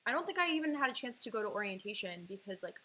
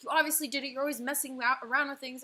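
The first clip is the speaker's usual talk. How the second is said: louder, accusing mother's voice; mild mock yell of an angry mom; retold mom yelling; 3 semitones higher, 5 dB louder than usual. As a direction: blame her loudly. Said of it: "screamed at me".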